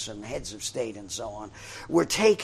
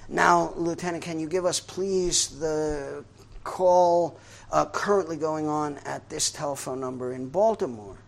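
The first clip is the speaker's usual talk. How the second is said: official's request; 4 semitones higher, 4 dB louder than usual. Retold or imitated. Official asks third time.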